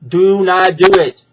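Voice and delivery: a loud, insistent repeat of "Do not do it". Real, not acted. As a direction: lean in and make the "do" land as a warning. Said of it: "Brandon, listen to me".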